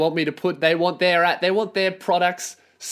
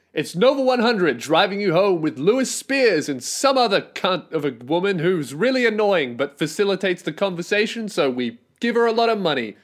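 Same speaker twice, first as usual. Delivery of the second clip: lightly hammed-up drive-time host intro; mock radio host intro; 2 semitones higher than usual. Parodying a drive-time radio show opening, hammed-up host. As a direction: sell it like a slick host, tongue in cheek. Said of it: "This is how it would go".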